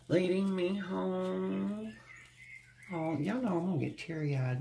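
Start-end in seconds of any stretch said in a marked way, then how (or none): 0.1-1.9 slow, higher, moved repeat; a touched, lingering echo; tender echo. Real, not acted. Moved reader repeats card message.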